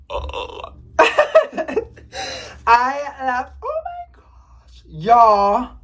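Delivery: high, emotional gushing; overcome, voice thinning to a squeak; overwhelmed delight. Real, not acted. Vlogger overcome by cute air plants, gushing.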